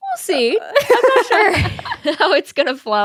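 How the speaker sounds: high voice. Real, not acted. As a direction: voice jumping up high. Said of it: "The voice got real high there".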